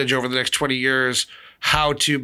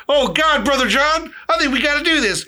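high, louder hammed-up redneck voice; mock redneck villain; 11 semitones higher, 3 dB louder than usual. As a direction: play a dumb hillbilly villain. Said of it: "two random redneck villains".

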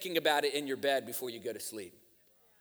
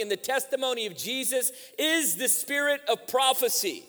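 raised, driving sermon delivery; preaching; 6 semitones higher, 7 dB louder than usual. Real, not acted. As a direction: preach it with rising force to the congregation.

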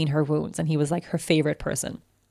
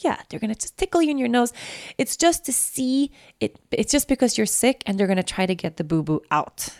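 put-on high, gentle sing-song to a child; calm her like it's all fine; upbeat mother talking a scared child into a test; reassuring mom; 6 semitones higher than usual. Mom soothing toddler.

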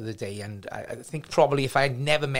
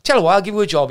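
booming boss; 7 semitones higher, 10 dB louder, faster than usual. Retold or imitated.

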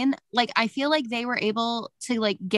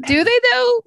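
incredulous tease; 8 dB louder than usual. Real, not acted. Teasing sceptical reply.

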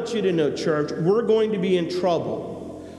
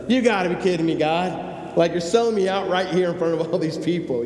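exasperated; 4 semitones higher than usual. Retold or imitated. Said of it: "He's like".

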